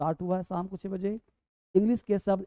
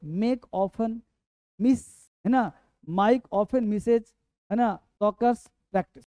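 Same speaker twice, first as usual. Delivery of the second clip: slow model sentence; much slower than usual. Shown as a demonstration. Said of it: "teacher models sentence slowly".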